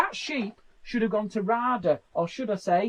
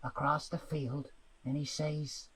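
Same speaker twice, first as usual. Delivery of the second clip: drama reading; 6 semitones lower, 11 dB quieter than usual. Pretend. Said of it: "this is my bit for the Archers".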